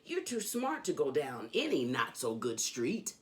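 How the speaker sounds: lively, sing-song storybook reading; reading to children. A narrator's reading. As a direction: read it like a bedtime book for kids. Reads Dr. Seuss to children.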